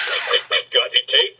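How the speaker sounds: quacky, voiceless "quick, quick, quick"; joke duck. Acted. Duck asks bartender for raisins, quacking voice. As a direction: quack out the repeated word like a duck.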